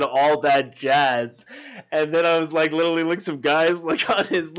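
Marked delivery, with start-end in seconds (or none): 0.0-1.4 slow replay. Retold or imitated. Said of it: "and then I said".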